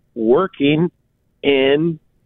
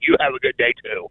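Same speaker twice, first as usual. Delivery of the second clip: sugary, much higher and quick fake-sweet comeback; sarcastic high reply; 11 semitones higher, faster than usual. Annoyed shopper mocking the cashier's cheerful goodbye, fake sweet. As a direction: toss the nicety back with mock sweetness. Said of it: "I'm like".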